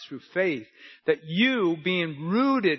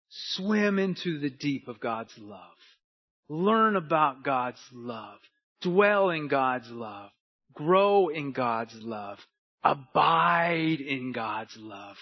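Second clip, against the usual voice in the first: slow litany; 2 semitones lower, slower than usual. Acted.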